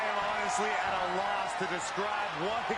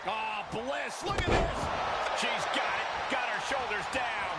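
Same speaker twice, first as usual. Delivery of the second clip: wrestling commentator; 3 semitones higher than usual. Real, not acted. Live play-by-play call.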